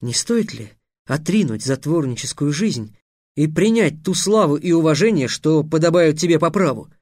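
solemn. A narrator's reading. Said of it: "торжественно закончил Трикс".

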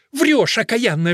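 slow, loud, high furious accusation; old nun crying out in fury; angry cry. A narrator's reading. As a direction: hurl the word at her. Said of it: "вскричала мать Анхелика".

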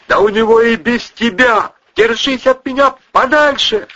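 high, loud snarling rebuke; growled. Acted. Wife snarling at the cousin, loud furious rebuke. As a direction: snarl at him to back off. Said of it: "зарычала Кристина".

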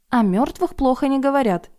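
reproachful. Acted. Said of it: "укоризненно заметила".

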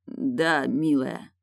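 rasped hoarse reply; barely voiced hoarse words. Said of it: "просипел".

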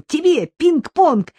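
"Тебе пинг-понг" drawn out slowly, high and loud with a long fall; jubilant. A narrator's reading. Boy presenting the ping-pong table to his mum, slow jubilant stretch. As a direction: savour the gift for mum. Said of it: "ликовал мальчик".

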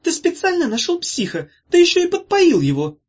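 high, loud furious yell; angry shout. A narrator's reading. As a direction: scream the accusation at your brother. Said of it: "крикнула Зозо".

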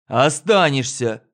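slow, firm final word; firm insistence. Acted. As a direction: lay down the law slowly. Drover repeats firmly.

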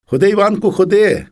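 high, loud calling. Retold or imitated. Mother calls Ivan into the house, high loud call. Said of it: "кличуть".

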